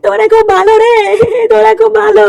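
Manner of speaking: hammed-up tearful thanks; mock crying. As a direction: play the weepy friend, lightly. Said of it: "আর কান্না করিস না". (হালকা নাটুকে কান্নার সুরে)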